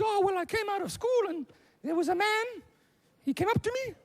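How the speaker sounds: put-on very high little-girl voice; upset daughter. Daughter telling dad about a man, high upset voice. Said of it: "Mike's daughter comes home from school".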